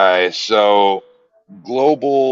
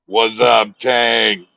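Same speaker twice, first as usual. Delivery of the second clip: playful holler; 3 semitones higher, much slower than usual. Acted. Hollering a greeting to a fan.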